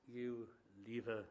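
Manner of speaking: low, menacing near-whisper; very quietly. Retold or imitated. Nathaniel quietly warning Billy off Lucy, low and menacing. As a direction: warn him off under your breath. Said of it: "He says it very quietly".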